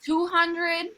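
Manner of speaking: high, bright auction calls; playful bidding. Pretend. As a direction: tease like an auctioneer.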